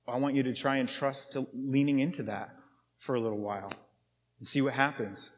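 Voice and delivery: gentle invitation. Acted. Gently inviting listener in model gospel.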